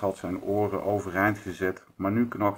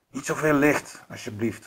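wolf growling; 6 semitones higher than usual. A narrator's reading. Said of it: "gromde hij".

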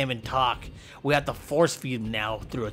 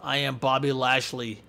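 tough wrestler voice; 4 semitones lower than usual. Pretend. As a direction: growl out a lightly voiced strongman boast. Voicing Bobby Lashley.

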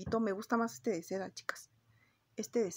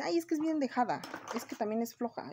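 gossipy mock voice; 3 semitones higher than usual. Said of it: "mucha gente dice".

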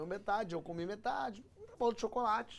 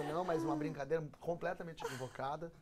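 offended wife; 5 semitones lower than usual. Retold or imitated. Offended wife lecturing husband on his joke, low solemn reproach.

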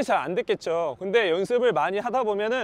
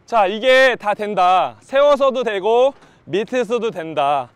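louder, slow, emphatic; emphatic coach declaration; 6 dB louder, much slower than usual. Real, not acted. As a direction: announce it proudly, slowly. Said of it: "coach declares it all works".

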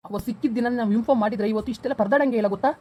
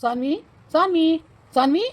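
higher calls of the name, rising at the end; calling out; 5 semitones higher, slower than usual. Acted. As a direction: search and call for her. Father calls for missing girl. (ಹುಡುಕುತ್ತಾ ಹೆಸರು ಕೂಗುವುದು)

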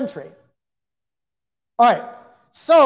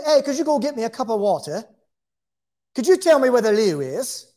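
a hint of a British accent, casual question; lightly put-on British accent asking for the loo; mock British accent, barely shifted. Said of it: "It's like a kind of a British accent".

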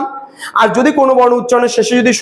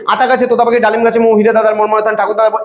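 quick nursery rhyme recital. Shown as a demonstration. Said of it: "এক নিঃশ্বাসে আমরা শেষ করে দিতে পারি".

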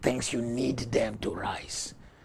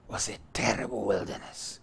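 whisper; 6 dB quieter than usual. Real, not acted. Preacher dropping to a whisper.

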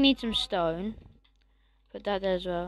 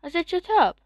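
stern, raised voice; firm shout at dog; 6 semitones higher, 4 dB louder than usual. Real, not acted. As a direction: insist on it, louder. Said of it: "to the dog".

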